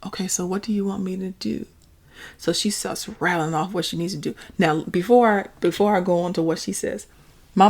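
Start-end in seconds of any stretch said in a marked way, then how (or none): 0.0-1.7 calm, unbothered and a bit softer; real cool. Retold or imitated. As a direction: keep it cool and even, no edge. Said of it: "real cool".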